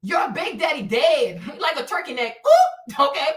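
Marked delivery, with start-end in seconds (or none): 2.5-3.3 loud high squeal of ooh; high mock ooh. Real, not acted. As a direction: squeal it out, delighted. High exclamation.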